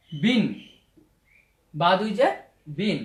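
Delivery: "বিন" said as বি closed with n; tanween pronunciation. Shown as a demonstration. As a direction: spell "বা দুই জের", then model "বিন". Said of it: "তানবিনের উচ্চারণ".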